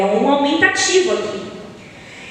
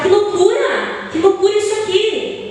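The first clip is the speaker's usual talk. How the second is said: mais agudo e devagar, fazendo-se de assombrado; espanto fingido; 7 semitones higher than usual. Retold or imitated. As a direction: imite alguém dizendo que loucura, espantado. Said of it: "Você vai falar". (espanto exagerado, bem mais agudo)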